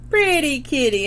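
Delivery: high parrot squawk. Shown as a demonstration. Teacher shows children the parrot voice, high squawk. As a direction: do your best parrot. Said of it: "in your best parrot voice".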